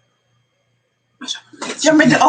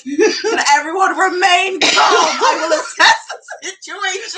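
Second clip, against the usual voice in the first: louder, slow, half-laughing call to stay calm; retold loud authority; 5 semitones higher, 3 dB louder, slower than usual. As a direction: command the room, voice raised. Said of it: "I'm like".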